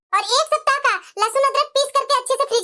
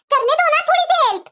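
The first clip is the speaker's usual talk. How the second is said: higher, whiny plea; begging daughter; 6 semitones higher than usual. Acted. Daughter begging mother to let her help bhabhi, whiny plea.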